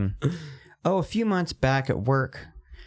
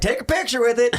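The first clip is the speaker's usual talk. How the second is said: higher, loud dad's call; dad shouting; 9 semitones higher, 3 dB louder than usual. Retold or imitated. Dad ordering a photo with the catch, loud call. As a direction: bark it out like a proud dad. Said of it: "your dad's like".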